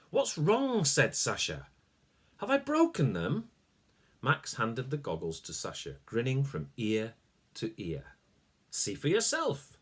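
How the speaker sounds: put-on Sasha, worried boy. Sasha asks Max if he broke the goggles, anxious. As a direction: ask it nervously like a worried boy.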